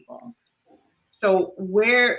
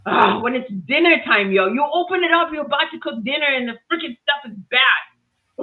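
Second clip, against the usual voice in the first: exasperated rant, pitched higher; worked-up, higher-voiced complaint; frustrated; 5 semitones higher, 4 dB louder than usual. Real, not acted. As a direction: vent about a spoiled dinner. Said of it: "so frustrating".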